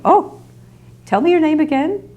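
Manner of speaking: high, flustered, rushing voice; flustered old lady. Retold or imitated. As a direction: imitate a frazzled elderly woman hurrying off the phone. Imitating Kitty chatting.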